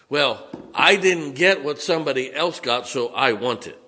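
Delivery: hammed-up whine; sulking complaint. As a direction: voice the self-pitying sulker. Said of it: "a sulking attitude says".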